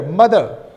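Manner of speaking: "mother" ending in a schwa, no R; non-rhotic. Shown as a demonstration. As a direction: drop the final R of "mother". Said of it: "no rauticity is shown".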